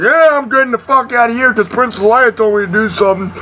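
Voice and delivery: high, fast comic robot retort; hurried mock defiance from a little droid; R two. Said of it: "R two's like".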